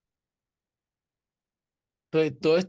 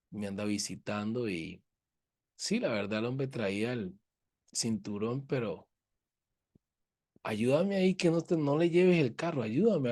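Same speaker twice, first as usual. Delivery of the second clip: calm, peaceful plea; 3 semitones lower, 4 dB quieter than usual. Retold or imitated. Pastor calmly pleading with the traffic officer, soft and low. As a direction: lower and softer, gently pleading with the officer. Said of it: "me le acerqué muy pacíficamente".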